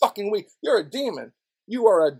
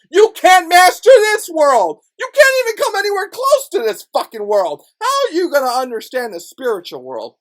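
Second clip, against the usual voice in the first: heated shout; 8 semitones higher, 7 dB louder than usual. Real, not acted. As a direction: hammer each word out angrily. Heated rant.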